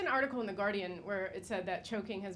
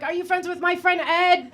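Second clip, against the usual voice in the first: mock excitement; 9 semitones higher, 12 dB louder than usual. Mock question during chokehold.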